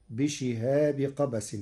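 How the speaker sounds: slow بشهاب without tanween; Warsh reading. Shown as a demonstration. الشيخ يقرأ بشهاب بدون تنوين. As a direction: recite بشهاب قبس with no nunation. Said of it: "قرأ ورش كلمة بشهاب بدون تنوين".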